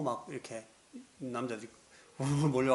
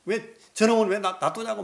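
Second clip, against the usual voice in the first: high, loud screaming as she is dragged off; dragged woman shrieks at the crowd, high and loud; screaming protest; 9 semitones higher, 7 dB louder than usual. Retold or imitated. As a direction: shriek it out, outraged. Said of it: "소리 지르고 막".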